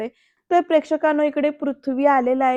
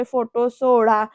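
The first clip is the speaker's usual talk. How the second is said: slow, mildly raised retold demand; 4 dB louder, much slower than usual. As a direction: draw the order out firmly. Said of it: "असं आवाज चढवून बोलतो".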